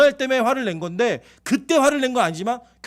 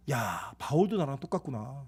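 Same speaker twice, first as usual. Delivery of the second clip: low, soft musing to oneself; quiet realisation; 8 semitones lower, 9 dB quieter than usual. Acted. Preacher recognising himself in Paul, quietly musing. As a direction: murmur it low, as a private realisation. Voices his relief at Paul's confession.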